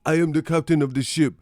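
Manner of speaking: put-on loud opening bark, Somali accent; commanding Somali hijacker, word by word; mock Somali pirate. Streamer casts rival as pirate seizing ship, mock Somali accent. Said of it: "they talking like Somali pirates".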